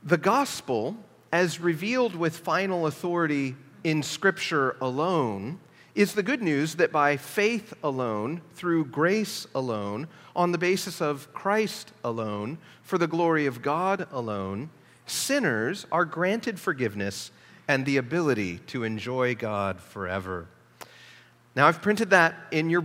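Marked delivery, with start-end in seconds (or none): 0.0-1.0 reading a quote aloud. Shown as a demonstration. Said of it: "this is the, the quote". 1.3-14.7 each "alone" leaned on, a beat of weight; stress on alone. Shown as a demonstration. Reading Piper's quote to the church, pressing on each "alone". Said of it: "And I'll emphasize the word alone". 15.1-20.5 reading a quote aloud. Shown as a demonstration. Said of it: "this is the, the quote".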